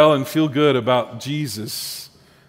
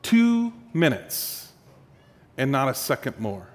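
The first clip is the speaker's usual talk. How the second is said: curt politician; 3 semitones lower, 6 dB quieter than usual. Acted. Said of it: "The politician looks at him and he says".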